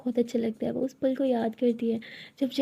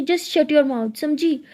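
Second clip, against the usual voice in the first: louder, higher sharp command; angry order; 3 semitones higher, 5 dB louder, much slower than usual. Acted. Tara orders her girlfriend to be silent, angry sharp command. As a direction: bark the order to shut up.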